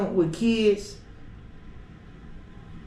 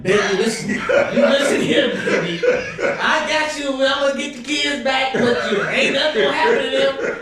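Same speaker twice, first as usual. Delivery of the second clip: pimp; 3 semitones higher than usual. Acted. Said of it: "I don't be talking like a pimp".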